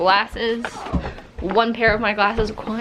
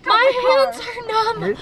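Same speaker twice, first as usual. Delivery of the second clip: shivering, slow and strained from the cold; freezing cold; 12 semitones higher, slower than usual. Real, not acted. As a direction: talk through chattering cold. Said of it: "It is so cold".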